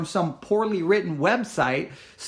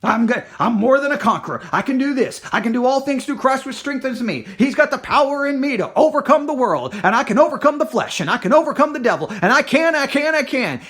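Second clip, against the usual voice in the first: louder and higher, a proud declaration of victory; mock the believer reciting faith slogans; hammed-up churchgoer boasting he can overcome; churchy confident talk; 5 semitones higher, 5 dB louder than usual. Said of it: "they're taught to talk the language".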